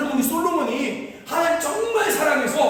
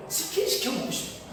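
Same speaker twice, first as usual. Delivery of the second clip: a breathy whisper of a student's late-night craving; 4 semitones higher, 7 dB quieter than usual. Retold or imitated. Preacher voices a seminary student craving chicken, whispered. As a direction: whisper it like a hungry student sneaking food.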